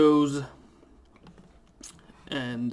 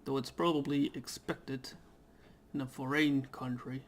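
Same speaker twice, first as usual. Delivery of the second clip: a touch higher, casual first-person reading; lightly voiced game character; 3 semitones higher than usual. The newly arrived traveller musing on the air, lightly voiced. Reads the main character's lines.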